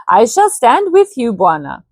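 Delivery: put-on eager pledge in a light Indian accent. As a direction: chief swears loyalty, lightly Indian-accented. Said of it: "I made the native sound Indian".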